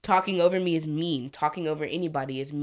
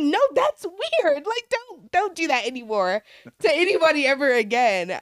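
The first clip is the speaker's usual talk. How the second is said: firm no; 9 semitones higher, 3 dB louder than usual. Retold or imitated. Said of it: "I'm like".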